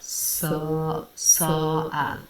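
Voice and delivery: "sa" drawn out slowly; slow open "sa, a", one sound at a time; starting vowel isolated. Shown as a demonstration. Reviewer breaking down his vowel, slow isolated sounds. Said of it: "He starts it out".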